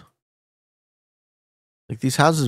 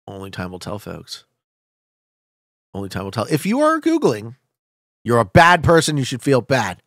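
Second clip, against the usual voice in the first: ordinary talk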